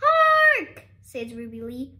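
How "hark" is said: high, loud proclaiming hero cry; theatrical herald's shout; heroic call. A narrator's reading. Ruby Lee's heroic call.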